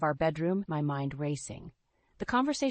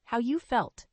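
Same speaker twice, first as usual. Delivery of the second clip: incredulous, higher and louder; voice rising; 8 semitones higher, 4 dB louder than usual. A narrator's reading. Husband mocking his wife's complaint, voice rising. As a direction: throw her words back at her, raised. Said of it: "Richard's voice rose".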